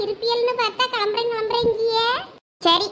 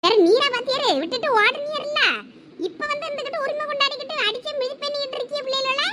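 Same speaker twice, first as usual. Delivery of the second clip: indignant, pitch climbing high; angry retort; 3 semitones higher than usual. Acted. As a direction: hit back at the husband, voice rising. Wife retorts in quarrel over children. (கோபமாக எதிர்த்துப் பேசுவது)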